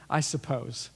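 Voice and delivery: a slow, unsure pause on I suppose; hesitant pause. Retold or imitated. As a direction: hold back, then say I suppose reluctantly. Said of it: "he has to pause for a moment".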